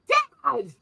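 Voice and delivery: high, startled cry of Dad!; shocked outcry. Retold or imitated. Shocked at dad's joke.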